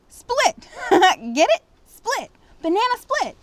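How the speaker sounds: high, loud, gleeful punchline with a laugh; laughing at his own joke. Acted. Uncle Red delivering his banana joke to Sassy, laughing loudly. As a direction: crack up at your own pun.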